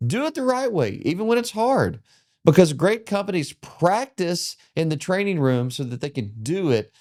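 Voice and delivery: rousing podcast wrap-up; upbeat motivational outro read; closing host read. Acted. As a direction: speak to the listener like a motivating host. Host's closing lesson read.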